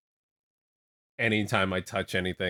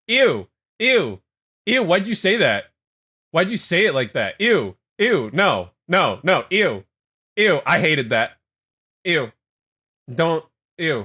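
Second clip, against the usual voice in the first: high, loud, grossed-out shrieks; disgusted shrieking; 5 semitones higher, 7 dB louder than usual. Real, not acted. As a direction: recoil and squeal "ew". Grossed out by chat comment.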